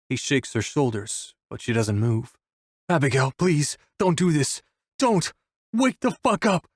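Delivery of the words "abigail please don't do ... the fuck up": plea climbing to a high-pitched yell; desperate begging that rises sharply, volume held back; tearful yell. A narrator's reading. Wolf clutches Abigail and begs her to wake, yelling. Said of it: "he yells at her, crying".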